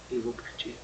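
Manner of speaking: soft whispered quote. Retold or imitated. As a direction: whisper it, hushed and grave. Pastor's words retold, whispered. (sussurrado, contando a fala do pastor)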